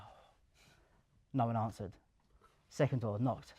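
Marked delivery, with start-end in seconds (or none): 0.0-0.3 deflated sigh. Retold or imitated. Nervous at first unanswered door.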